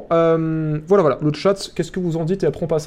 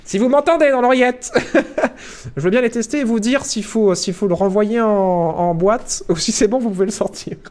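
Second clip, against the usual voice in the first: laughing; 5 semitones higher than usual. Real, not acted. Laughing plea to Warner.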